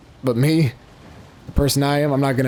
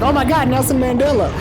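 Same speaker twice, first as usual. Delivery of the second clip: mock excited gasp; 11 semitones higher, 3 dB louder than usual. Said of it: "someone's like".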